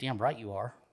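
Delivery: put-on muttering under the breath. Retelling what a young girl said in an aisle: imitating someone muttering under breath. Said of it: "she says under her breath".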